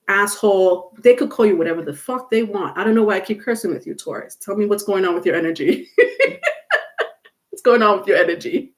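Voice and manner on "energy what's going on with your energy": laughing. Real, not acted. Laughing at her own cursing.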